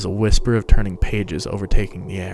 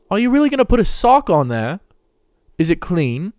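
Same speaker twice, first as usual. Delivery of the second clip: put-on high, young boy's voice, doubtful and squeamish; a frightened boy eyeing the sock with suspicion; wary young boy; 10 semitones higher, 4 dB louder than usual. A narrator's reading. Injured boy questions Remus about the sock, wary and high.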